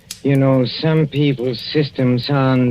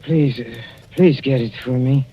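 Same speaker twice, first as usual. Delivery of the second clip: louder, halting plea for help; urgent pleading; 4 semitones higher, 4 dB louder than usual. Acted. Poisoned husband begging his wife for the book, urgent halting plea. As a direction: gasp out the request, desperate.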